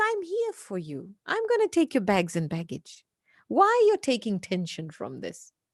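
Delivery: put-on calm, peaceful, reassuring, sing-song voice. Retelling what a man standing with your bags said to you, imitating a calm, peaceful voice. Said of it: "very peacefully and says".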